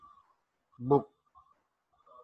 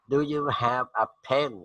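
slow model question; 3 semitones higher, much slower than usual. Shown as a demonstration. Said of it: "teacher models question slowly".

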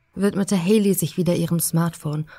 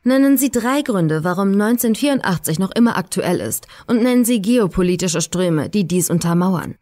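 lecturer reading out a question; reading aloud to class. A narrator's reading. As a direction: announce it to the whole room. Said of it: "las vor".

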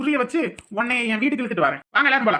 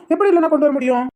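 higher, louder, punching எப்படி; emphatic question; 5 semitones higher, 6 dB louder than usual. Acted. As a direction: press the point with எப்படி hit hard. Persuading about bringing baby back. (குழந்தையை மீட்க விளக்கும் மாமா, எப்படி என்பதை அழுத்திக் கேட்கிறார்)

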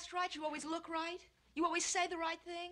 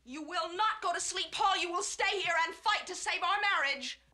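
angry insistence; 3 dB louder than usual. Acted. Wife orders husband to stay and fight, angrily insistent. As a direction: lay down the law, hitting each demand.

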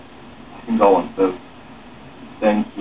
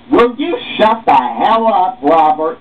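loud angry snap, pitched up; angry outburst; 7 semitones higher, 4 dB louder than usual. Acted. Support group member yelling at Robert, angry. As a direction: tell him to shut up, fed up.

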